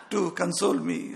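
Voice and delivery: amused, chuckling over the words; laughing at the lady's kind trick. Real, not acted. Laughing at sweets for diabetic.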